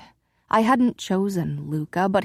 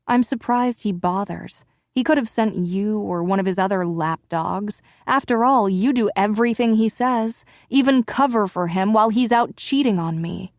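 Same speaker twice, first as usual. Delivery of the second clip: raised, biting reproach; bitter lashing out; 2 semitones higher, 3 dB louder than usual. Acted. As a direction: sneer every word at him. Wife lashing out.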